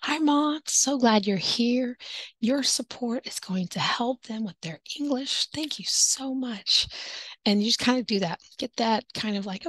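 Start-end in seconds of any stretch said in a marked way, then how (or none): 0.0-6.9 sweet higher welcome, slowing and softening to a hushed thanks; warm welcome. Shown as a demonstration. Teacher thanking a parent for support, sweet and hushed. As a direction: thank mom kindly, almost confiding. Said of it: "I'm going to just guess".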